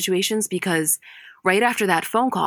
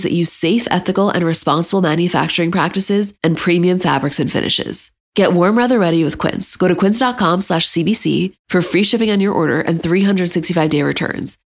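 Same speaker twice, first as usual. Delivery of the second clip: upbeat, loud sponsor read; 6 dB louder than usual. Acted. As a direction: sell it like a radio spot. Host reads a sponsor ad.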